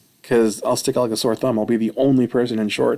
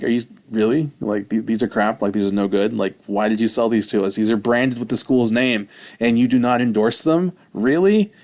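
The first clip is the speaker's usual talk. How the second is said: incredulous. Retold or imitated. Questioning coach about the pants.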